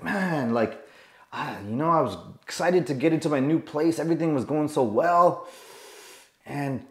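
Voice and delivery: softly, deflated, sighing to himself; dad's quiet disappointment. Retold or imitated. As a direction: mutter it like a let-down man. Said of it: "He's like".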